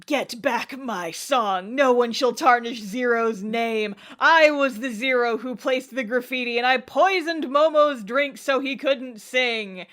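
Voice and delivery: mock villain's dramatic declaration; lightly hammed-up villain confession, emphatic; overacting supervillain. Yamato confessing to Yuki in a staged prank, overacting villain. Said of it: "extremely overacting".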